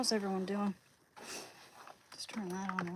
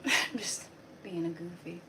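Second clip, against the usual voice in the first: laughing; 3 dB louder than usual. Real, not acted. Laughing at own joke.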